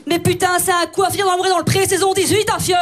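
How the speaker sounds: mock-indignant Belgian outburst; hammed-up Belgian accent, running on without a breath. Outburst after her name said Belgian-style, Belgian accent. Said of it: "en Belgique, c'est prononcé comment?".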